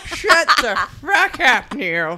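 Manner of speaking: put-on high, loud cranky old woman; old lady voice. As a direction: snap at him like an irritated eighty-six-year-old. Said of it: "Put in an old lady voice".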